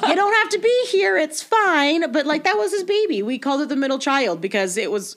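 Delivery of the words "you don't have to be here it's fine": higher, louder, laughing urging; half-laughing, coaxing him to go home; amused, pleading through laughter; laughing plea. Retold or imitated. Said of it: "'cause you're like".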